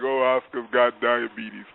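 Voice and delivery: mocking himself with the same line; self-mocking lament. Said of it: "mock the way he said it".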